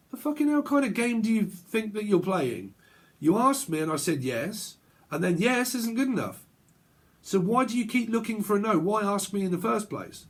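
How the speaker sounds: retold quarrel, voice riding high; exasperated argument. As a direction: demand an explanation, fed up. Acted argument over a yes answer.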